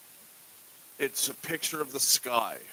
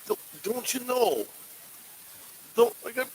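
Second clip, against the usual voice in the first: mock Minnesota accent; 12 semitones higher, 5 dB louder than usual. Podcaster imitating Minnesotans for the cohost, hammed-up Minnesota accent. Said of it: "they talk like that".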